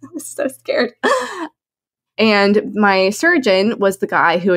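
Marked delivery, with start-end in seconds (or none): 0.0-0.9 laughing. Real, not acted. Laughing recalling fear.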